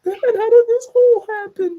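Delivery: high, loud question through laughter; barely holding it together in disbelief; cracking up. Real, not acted. Cracking up at video damage.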